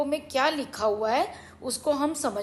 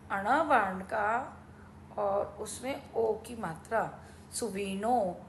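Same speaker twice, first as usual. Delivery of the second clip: sounding out words; 2 semitones lower, 5 dB quieter than usual. Shown as a demonstration. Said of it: "सुवीणो कैसे लिखेंगे?".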